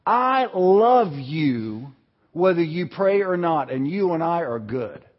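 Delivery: loving reassurance. Acted. Jesus answering someone who felt guilty, loving reassurance. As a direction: reassure tenderly, settling down at the end. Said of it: "what he was saying was".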